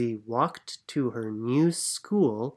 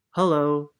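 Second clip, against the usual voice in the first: friendly big bear greeting; polar bear hello; 2 semitones higher, 5 dB louder than usual. Acted. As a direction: greet them like a kind bear. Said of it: "said the polar bear".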